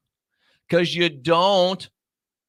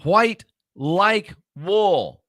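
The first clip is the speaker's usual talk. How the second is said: "white", "like", "wool" spaced out slowly and raised; slow it right down, "white" standing out first; stress on white; 5 semitones higher, much slower than usual. Shown as a demonstration. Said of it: "The emphasis is the white".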